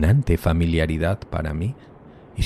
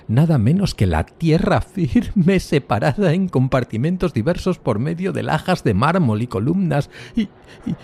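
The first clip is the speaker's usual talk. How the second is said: awed horror; 8 semitones higher than usual. A narrator's reading. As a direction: let the horror lift the voice. Horrified discovery of graveyard below. (horror asombrado, voz mucho más aguda)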